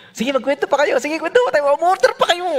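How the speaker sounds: high, loud mock enthusiasm; hammed-up urging to keep everyone at the table; overeager stalling. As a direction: pitch shoots up, comically insistent. Stalling to avoid saying sorry.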